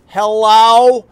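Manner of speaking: high, loud put-on voice of the clerk; mock receptionist. Husband imitating the clerk on the phone, high loud mock greeting. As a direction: answer the phone in a high mocking voice. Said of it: "The lady behind the desk goes".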